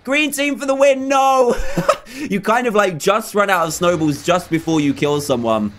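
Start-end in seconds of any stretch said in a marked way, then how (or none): 2.1-5.7 breathless from excitement; out of breath. Real, not acted. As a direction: talk between quick breaths. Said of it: "I'm out of breath, guys".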